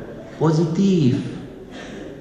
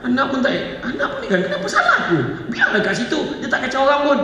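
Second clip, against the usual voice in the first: put-on high, whiny, put-upon child voice; sulky child; 10 semitones higher than usual. The child grumbling to himself about his mother, high and whiny. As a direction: whine like a sulky kid. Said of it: "Anak ni dalam hati dia cakap".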